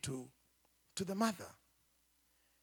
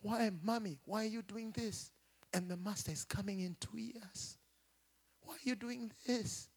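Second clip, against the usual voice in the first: put-on tearful child; 5 dB quieter than usual. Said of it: "This is what he said".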